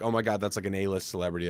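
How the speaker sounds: low, soft awed muttering; stunned mutter. Retold or imitated. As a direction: mutter it to yourself, dazed. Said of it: "walking off like".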